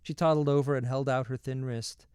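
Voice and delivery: ordinary delivery, nothing marked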